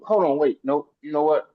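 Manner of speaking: ordinary talk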